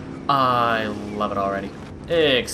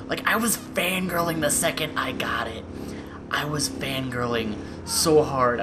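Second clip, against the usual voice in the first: whisper; 2 semitones higher than usual. Real, not acted. Confiding her excitement about the game.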